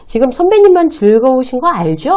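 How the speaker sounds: dry, pointed comeback; deadpan it back at him; dry retort. Shown as a demonstration. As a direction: junior coolly deflating a senior's joke, dry. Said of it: "굉장히 건조한 표정으로".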